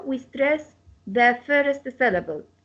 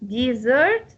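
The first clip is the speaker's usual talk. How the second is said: "Desert" as a verb, di-ZERT; stress on second syllable. Shown as a demonstration. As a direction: lengthen the sert of "Desert". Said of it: "same pronunciation as dessert".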